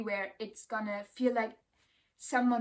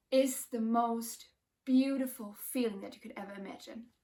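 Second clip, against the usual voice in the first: emotional. Real, not acted. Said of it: "I'm getting emotional".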